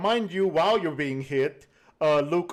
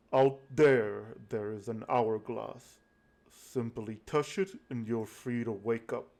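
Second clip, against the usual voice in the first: Death speaking; 2 semitones lower than usual. Acted. GM voices Death character.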